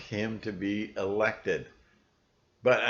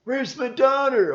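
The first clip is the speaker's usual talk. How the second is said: mock angry parent; 8 dB louder than usual. Acted scary quote.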